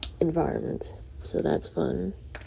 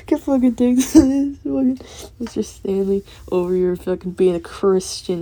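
laughing mock yell; 3 semitones higher, 5 dB louder than usual. Real, not acted.

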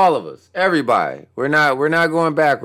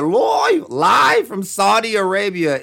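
hammed-up announcer; 3 semitones higher, slower than usual. Host redoes the event call in mock announcer voice. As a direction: lean into a hammy event call. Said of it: "Why did I say it like that?".

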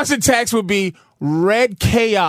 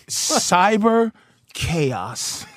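trailer announcer voice; much slower than usual. Pretend. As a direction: drop it like a cheap movie trailer.

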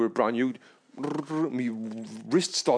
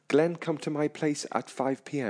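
careful voice for Siri; 4 dB quieter than usual. Shown as a demonstration. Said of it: "I've got to speak like a dickhead".

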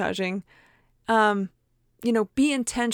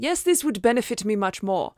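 "Yes, this would benefit me much more" in a lightly put-on accent; 3 dB louder than usual. Shown as a demonstration. Self-talk redone with an accent. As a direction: say it again but with an accent. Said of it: "Okay, with an accent".

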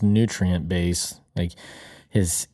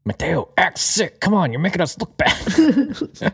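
high mock parent voice; 9 semitones higher, slower than usual. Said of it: "parent voiced".

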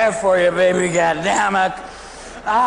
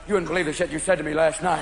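dog's judgment; 3 semitones lower, 4 dB quieter than usual. Retold or imitated. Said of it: "your dog's looking at you like".

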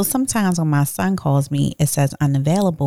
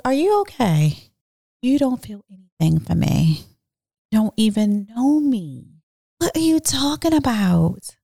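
incredulous retort; 4 semitones higher than usual. Retold or imitated.

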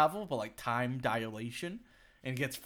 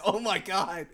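laughing apology; 7 semitones higher, 11 dB louder, slower than usual. Retold or imitated. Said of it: "I was like".

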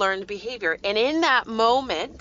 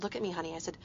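tender reassurance. Retold or imitated. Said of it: "And I said".

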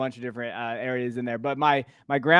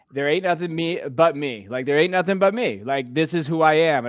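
quoting Rocket; 2 semitones higher, 5 dB louder than usual. Retold or imitated. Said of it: "Rocket, 'cause he's my favorite character".

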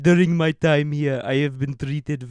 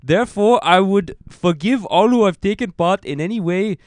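louder, solemn grand proclamation; Avatar-style solemn voice; 4 dB louder than usual. Retold or imitated. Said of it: "Now you sound like one of the Avatar".

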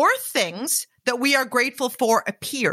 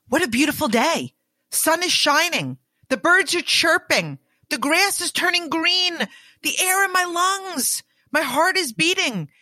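gratitude affirmations; 5 semitones higher than usual. Shown as a demonstration. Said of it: "Think about the difference of thinking and speaking".

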